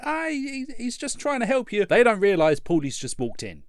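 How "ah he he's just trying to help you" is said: Adrian voice. Retold or imitated. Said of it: "Adrian's just like".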